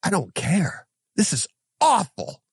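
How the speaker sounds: high, mock crying complaint; whiny upset wife. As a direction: play the wife near tears. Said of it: "And she goes".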